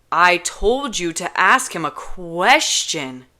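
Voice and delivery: slow, loud scolding; exasperated scolding. Acted. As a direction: spell out the failure. Kenji scolding her.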